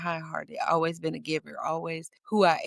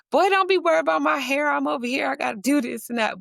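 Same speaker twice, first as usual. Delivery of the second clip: mom brushing off her son; 9 semitones higher, 4 dB louder, faster than usual. Retold or imitated. Mother answering her son.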